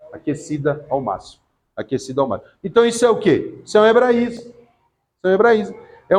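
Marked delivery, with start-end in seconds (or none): 0.1-2.5 "Aquecida ao máximo" said again, much softer and lower; quiet repeat. Shown as a demonstration. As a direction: repeat it softly, letting it sink in. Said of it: "no hebraísmo, na interpretação assim". (repetido baixinho e grave)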